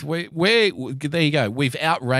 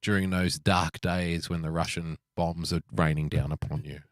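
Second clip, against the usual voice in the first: mock solemn speech; 5 semitones lower, 4 dB quieter than usual.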